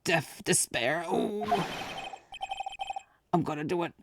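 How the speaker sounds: high, anguished despair; despairing wail. Acted. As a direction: wail that life is over. Client screaming in despair.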